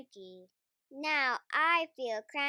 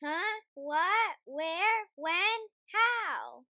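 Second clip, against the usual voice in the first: startled; 4 semitones higher, 4 dB louder, much slower than usual. Acted. Startled awake by the shout.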